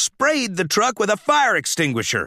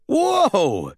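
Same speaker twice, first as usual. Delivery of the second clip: startled cry; 4 semitones higher than usual. Acted. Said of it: "he cried".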